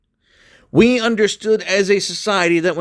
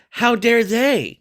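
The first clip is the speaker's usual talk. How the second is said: mocking quote; 6 semitones higher, slower than usual. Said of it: "Blair White to say".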